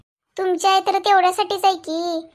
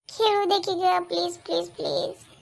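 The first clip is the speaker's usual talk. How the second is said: pleading, fading; 5 dB quieter than usual. Acted. Son begs to keep playing.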